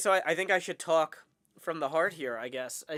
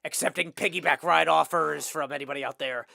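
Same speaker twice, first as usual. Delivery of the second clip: cowboy voice. Pretend. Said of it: "half Joker, half rodeo clown".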